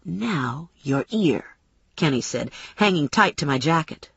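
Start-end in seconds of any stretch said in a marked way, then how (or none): 0.0-1.4 drawn-out, understated threat; a touch of sinister relish; slow menace. Acted. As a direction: announce the threat slowly, with restraint. Man threatens to cut ear.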